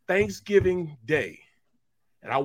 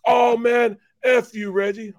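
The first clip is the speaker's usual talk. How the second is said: mock shout; 6 semitones higher, 6 dB louder, slower than usual. Creamy shouting back.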